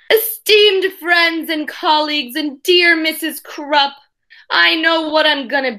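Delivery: a touch of pompous speech-giver; mock formal oration. Boy addresses class and teacher, mock grand oration. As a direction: open like a grand speaker, lightly hammed. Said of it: "began my oration".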